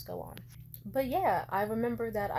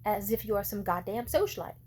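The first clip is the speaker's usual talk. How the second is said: retold mom rant; 2 semitones higher, 6 dB louder than usual. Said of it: "went on a rant where she was just like".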